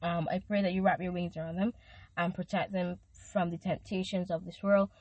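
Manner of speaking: earnest prayer, lightly set apart from her talk; intercessory prayer. Acted. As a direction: pray over the listener with conviction. Prays for listeners.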